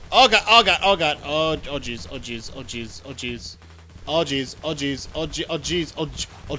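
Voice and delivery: babbling oh god, oh jeez; panicked rambling under attack; terrified gibbering. Real, not acted. Swarmed by enemies, panicking.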